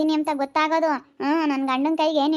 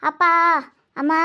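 loud wail of ayyo; captive's loud wail; acted scream; 4 dB louder than usual. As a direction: cry out in protest. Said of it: "ನಾನ್ ಕಿರ್ಚಾಡ್ತೀನಿ".

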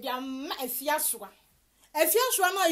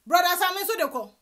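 taunting call-out; 4 semitones higher, 5 dB louder than usual. Real, not acted. Taunting chant repeated.

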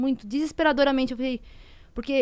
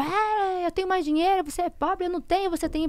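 quoting him in a higher, taunting voice; mocking the ex; 7 semitones higher than usual. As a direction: throw his boast back, mocking. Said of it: "ele usava isso". (voz debochada imitando o ex)

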